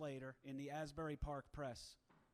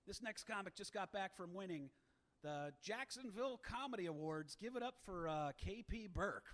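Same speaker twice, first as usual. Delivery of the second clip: hyped MC introduction, rising high; announcer intro; 5 semitones higher than usual. Retold or imitated. MC pumping up the crowd for the next comic, hyped announcer. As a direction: build up the crowd like an emcee.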